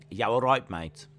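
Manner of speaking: a hint of a Dudley Black Country accent. Shown as a demonstration. Streamer showing chat a light Dudley accent greeting. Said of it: "put on a Dudley accent".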